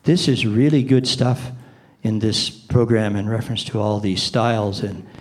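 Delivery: saying great news in a flat voice; deadpan delivery of exciting words; flat, unexcited demo. Shown as a demonstration. Demoing flat tone to a seminar audience, deadpan. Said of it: "what if I said".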